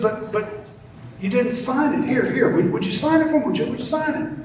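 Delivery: very high, stammering plea; a fan pleading for Picasso's signature, very high; begging fan. Acted. Admirer begs for signature.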